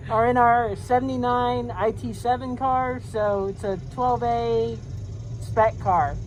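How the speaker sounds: muffled through a helmet visor; talking inside a racing helmet. Real, not acted. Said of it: "sorry, my visor falls down a lot".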